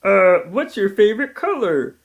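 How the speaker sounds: high put-on voice; mock cohost asking a question; imitating Coco. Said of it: "I'm gonna pretend to be Coco".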